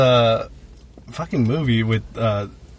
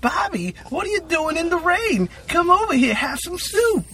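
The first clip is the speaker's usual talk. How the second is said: put-on sweet old lady. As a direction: coo at him like a doting grandma. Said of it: "she's like".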